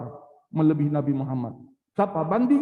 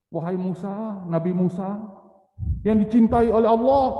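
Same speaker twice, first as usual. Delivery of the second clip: flattering Samiri; 2 semitones higher, 5 dB louder than usual. Retold or imitated. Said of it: "hati-hati sama pujian-pujian ini".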